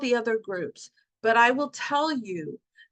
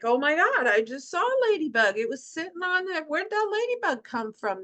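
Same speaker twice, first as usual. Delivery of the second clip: higher, rushing amazement; mock thrilled discovery, pitched up; excited; 5 semitones higher than usual. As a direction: gasp at the ladybug sign. Excited discovery of ladybug sign.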